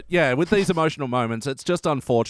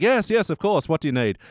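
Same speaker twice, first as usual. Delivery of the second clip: eager Italian waiter; 6 semitones higher than usual. Retold or imitated. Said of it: "they'd be like".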